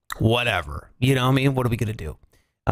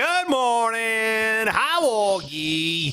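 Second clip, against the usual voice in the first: sing-song greeting; 7 semitones higher, much slower than usual. Pretend. Drawn-out morning greeting.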